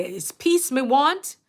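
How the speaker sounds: lightly voiced grandmother in Patois; grandmother's saying. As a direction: quote a grandmother's saying, unhurried. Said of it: "their grandmother would say".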